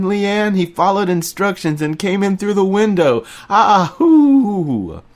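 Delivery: high, loud laughing exclamations; overjoyed Remy. A narrator's reading. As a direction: crow with delight to Leanne. Remy laughing, greeting narrator.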